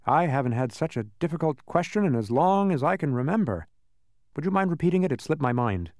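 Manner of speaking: lightly voiced, pondering character; puzzled ordinary man. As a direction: mull it over as a forgetful man. Puzzled man answers Milo.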